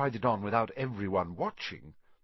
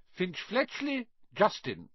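calling out a name; 10 semitones higher than usual. Acted. Teacher calls out a name.

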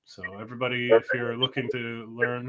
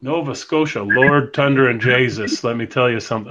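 put-on Newfoundland accent; 6 dB louder than usual. Host teasing a Nova Scotia caller, in a mock Newfoundland accent. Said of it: "that's, that's Newfoundland".

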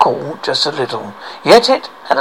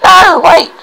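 pleading; 12 semitones higher, 6 dB louder than usual. Acted. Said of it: "said Average Frog".

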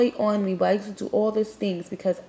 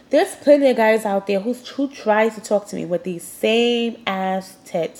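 stuffy nose. Real, not acted. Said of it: "I'm getting congested now".

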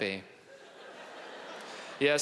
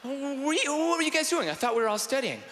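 high, innocent questioning; put-on high boyish voice; naive student; 11 semitones higher, faster than usual. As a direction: ask like a puzzled keen pupil. Imagined young self questions the girls.

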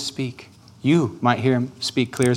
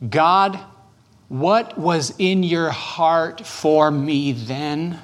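slow, hushed prayer to God, each word drawn out; slow prayerful asking; 3 semitones higher, much slower than usual. Shown as a demonstration. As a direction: ask it tenderly, as a prayer. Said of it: "I have another question for you".

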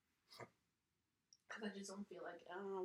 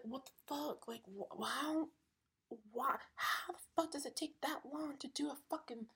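much higher, incredulous ranting questions; exasperated disbelief; 7 semitones higher than usual. Retold or imitated. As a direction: climb in pitch with disbelief at the wait. Retold exasperation at sister's delay.

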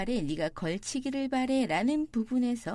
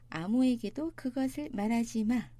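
ordinary talk

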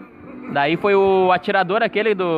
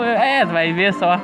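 menacing threat; slower than usual. Acted. Acted threat to tortured man.

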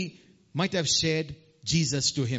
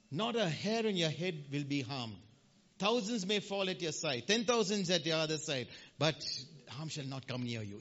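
soft, hushed blessing, much softer; hushed scripture; 3 semitones lower, 8 dB quieter than usual. Real, not acted. Preacher softly quotes scripture over the congregation, hushed. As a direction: speak the promise gently, almost hushed. Quoting psalm promise softly.

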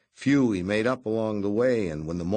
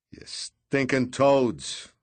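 slow, higher, louder furious shriek; 6 semitones higher, 5 dB louder, much slower than usual. A narrator's reading. Redrick shrieks at the captain and his goons, slow furious shriek. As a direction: spit each word out in rage. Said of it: "shrieked Redrick".

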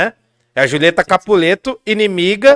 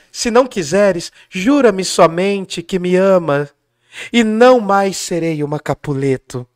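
softer Juliet; slower than usual. Acted. Juliet sighing for Romeo, now kept down for the microphone. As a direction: hold the drama back and keep it quiet for the mic. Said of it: "então eu vou falar baixinho".

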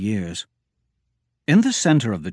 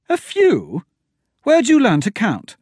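high, loud disbelief; mock his counting; outraged at the few snakes remark; incredulous scoff; 11 semitones higher, 5 dB louder than usual. Incredulous retort about snakes.

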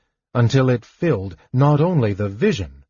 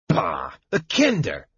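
spat. Acted. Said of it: "the Draconian spat".

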